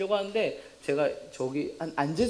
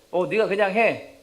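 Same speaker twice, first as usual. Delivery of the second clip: loud, higher, drawn-out instruction; offhand teacher order; 5 semitones higher, 9 dB louder, slower than usual. Acted. Teacher tells student to be class president, offhand order. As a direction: brush off the question loudly. Teacher hands over the job.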